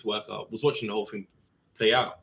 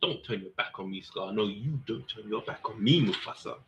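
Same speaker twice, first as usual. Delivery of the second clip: Lion King line; 6 dB quieter than usual. Pretend. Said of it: "that's such a Lion King line".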